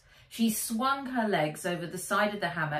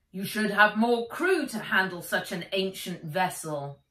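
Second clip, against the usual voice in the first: raised voice across water; calling up; 5 dB louder than usual. Acted. Policeman scolding from his boat, calling loudly. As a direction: call up to the deck.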